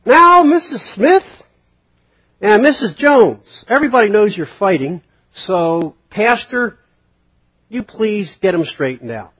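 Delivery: loud, high, slow pulpit voice calling out names; pastor calling people out. Pretend. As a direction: scold the congregation from the pulpit. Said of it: "Pastor gets up and says".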